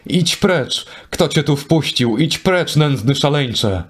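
high-pitched angry dismissal, no real volume; angry queen. Acted. Queen Iseult orders the madman out, angrily. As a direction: drive the madman away, indignant. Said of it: "zgniewana rzekła".

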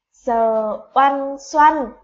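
sờ oăn xoăn spelled syllable by syllable, very slow and loud; slow spelling aloud. Shown as a demonstration. Teacher spells xoăn for pupils, slow and loud. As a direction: drag out each sound of sờ oăn xoăn for the class. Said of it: "tiếng xoăn sẽ được đánh vần như thế nào".

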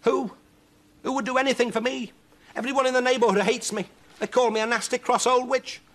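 very high, loud despairing wail; horrified cry. Acted. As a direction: cry out in horror, pitch way up. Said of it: "eyes round with horror, Huddle cried".

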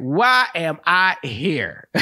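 slow, drawn-out exasperation; hammed-up, slow existential complaint; exasperated worker. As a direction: stretch out every word in mock despair. Repeats worker's question, drawn out.

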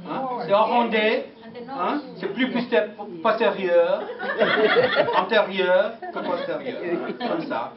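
French with rounded vowels, questioning "hein"; French speech. Shown as a demonstration. Showing the audience how the French speak, French accent. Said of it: "look at the French speak".

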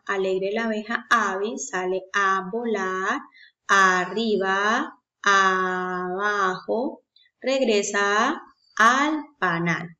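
slow sing-song reading of "arriba, abajo"; rhyme read to children. Shown as a demonstration. Teacher reads the bee rhyme to children, slow sing-song. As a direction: read the little rhyme slowly for small kids. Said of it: "Que habíamos leído ya".

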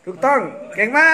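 excited praise. Real, not acted. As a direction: cheer him on for getting it right. Dad praises child's right answer.

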